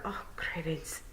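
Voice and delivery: tiny voice. Acted. Rob Anybody muttering in terror. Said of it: "in a tiny voice".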